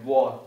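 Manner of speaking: "wa" with the mouth rounded into a circle; a rounded, emphatic wa; Arabic emphatic sound, modelled; Arabic emphatic letter. Shown as a demonstration. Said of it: "making that circle shape again".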